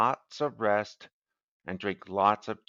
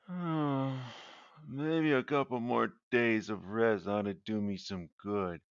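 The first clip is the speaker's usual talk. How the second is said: sighing; 4 dB quieter than usual. Acted. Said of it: "Then he sighed".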